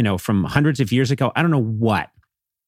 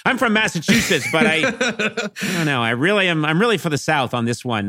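higher, teasing voice of a Yankee siding with the South; lightly voiced grandma confessing; mock Southern sympathizer; 6 semitones higher than usual. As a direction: play a sheepish Massachusetts rebel.

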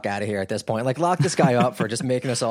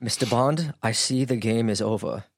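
lightly put-on, unplaceable foreign accent; hint at a movie villain with a vague accent; slightly accented Bond-villain line; Boot in unplaceable accent. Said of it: "I don't know what accent that was".

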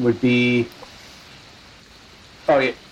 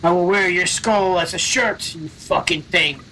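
barbarian's threat; 4 semitones higher than usual. Acted. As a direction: draw out the menace word by word. Player voices barbarian threatening monster.

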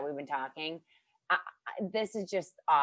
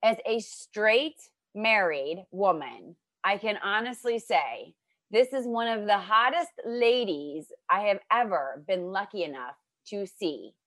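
nervously reading love poem; 3 semitones higher, 6 dB louder than usual. Acted. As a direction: declaim a gushing poem to your guest. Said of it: "Can I read you my poem now?".

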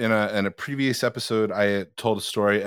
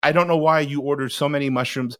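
higher-pitched nervous honesty, lightly acted; adrenaline-rush confession; 3 semitones higher than usual. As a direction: retell a confession blurted on adrenaline. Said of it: "you feel that honesty rush, that adrenaline rush".

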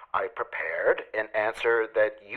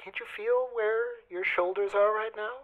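soft coaxing voice; 7 semitones higher, 7 dB quieter than usual. Retold or imitated. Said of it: "She kept saying".

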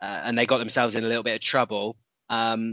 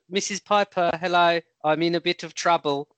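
imitating the referee; 5 semitones higher than usual. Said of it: "he's a".

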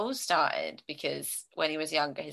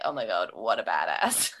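awed fanboy; 7 semitones lower than usual. Retold or imitated. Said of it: "and it's like".

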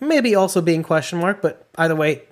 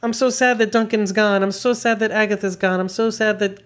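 mocking whiny fans; 4 semitones higher than usual. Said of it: "But people are like".

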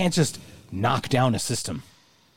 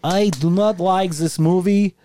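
louder, higher, slow indignant complaint; loud protest; 7 semitones higher, 5 dB louder than usual. Real, not acted. Friend picked Shawshank, he protests loudly and slowly. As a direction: drag out the over, over, overrated.

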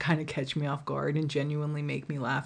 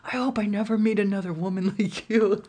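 higher, laughing through his line; laughing imitation; 5 semitones higher, 4 dB louder, faster than usual. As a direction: quote him while cracking up. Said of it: "he's like".

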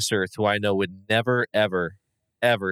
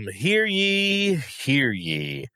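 town crier; 6 semitones higher, much slower than usual. Pretend. Herald opening for coach's pick.

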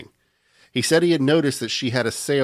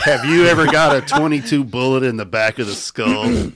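laughing ad pitch; 3 semitones higher, 7 dB louder than usual. Pretend. Mock ad pitch joke.

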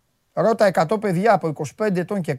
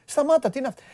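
imagined referee reprimand; 6 dB quieter than usual. Acted. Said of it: "θα του έλεγα".

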